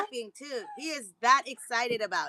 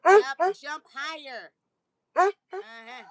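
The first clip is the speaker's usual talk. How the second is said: cheering the dog on; 3 semitones higher, 7 dB louder, much slower than usual. Real, not acted. Coaching the dog.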